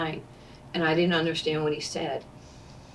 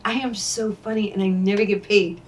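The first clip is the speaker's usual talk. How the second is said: laughing brag; 4 semitones higher, 5 dB louder than usual. Retold or imitated. Joking to Billy, laughing.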